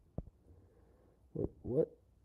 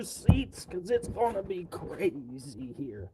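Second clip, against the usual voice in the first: hammed-up live announcer, getting louder into the end; mock show host intro; 3 dB louder than usual. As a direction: pitch it like a cheesy TV host hyping the crowd.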